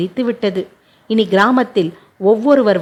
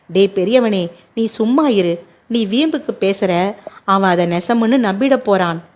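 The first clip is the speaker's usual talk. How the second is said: plain reading voice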